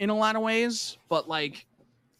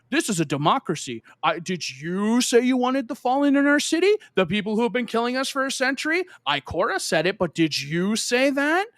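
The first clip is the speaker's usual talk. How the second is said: higher, louder sneering demagogue; hammed-up hostile politician, pitched up; mocking villain voice; 6 semitones higher, 3 dB louder than usual. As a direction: mimic her as a shrill accuser, higher and louder. Voicing the hated character.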